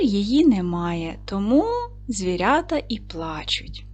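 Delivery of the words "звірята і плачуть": whispered softly, a touch sad; hushed sadness. Acted. Teacher to children, whispering about crying forest animals.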